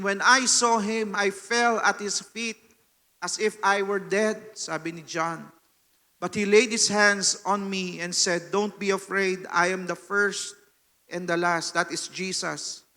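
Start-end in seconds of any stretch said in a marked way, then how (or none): 0.0-11.8 slow, measured Bible reading; scripture reading. Acted. Preacher reading Revelation to the church, slow solemn reading. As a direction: read the verse with weight.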